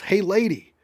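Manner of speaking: loud, high call-out; annoyed yell. A narrator's reading. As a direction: yell it at a careless driver. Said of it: "Another driver honks and yells".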